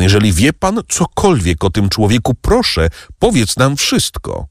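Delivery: imploring, pitch climbing on the plea; earnest pleading. Acted. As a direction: beg to be told, rising high. Maksymilian begs for an answer.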